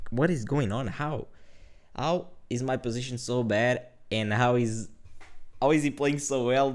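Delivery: frustrated disbelief. Retold or imitated. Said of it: "But I was very frustrated".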